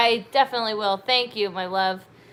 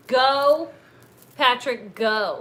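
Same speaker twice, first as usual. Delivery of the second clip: cheering; much slower than usual. Shown as a demonstration. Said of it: "And I think she means".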